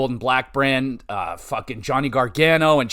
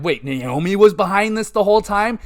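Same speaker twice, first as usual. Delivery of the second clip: higher-pitched disbelieving question; astonished realization; 6 semitones higher than usual. Retold or imitated. Fan retelling the big reveal, astonished. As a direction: replay the moment it dawns on you. Quotes own mind-blown reaction.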